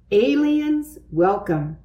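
sign announcement. A narrator's reading. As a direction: read it out like a welcome banner. Reading out the boys' signs.

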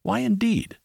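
a dry mocking aside; murmured. A narrator's reading. Holmes teasing the king, ironic murmur. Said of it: "murmured Holmes".

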